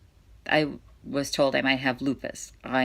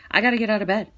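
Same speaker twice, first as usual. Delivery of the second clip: determined; 6 semitones higher, 5 dB louder, much faster than usual. Real, not acted. Determined mother pushing on.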